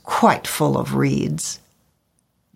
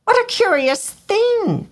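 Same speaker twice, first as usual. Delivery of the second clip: very high startled bird voice; surprised cry. A narrator's reading. Swallow hit by a drop, very high and surprised. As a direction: exclaim in puzzlement. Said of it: "he cried".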